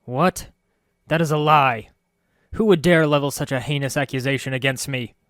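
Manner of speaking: loud, high, shocked denial. A narrator's reading. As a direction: protest the accusation in shock. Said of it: "eyes shrank back in shock".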